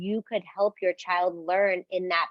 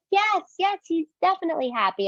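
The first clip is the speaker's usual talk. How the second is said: much higher, fast, eager yes yes; excited praise; 9 semitones higher, faster than usual. Shown as a demonstration. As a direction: cheer the child's right answer. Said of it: "You're like".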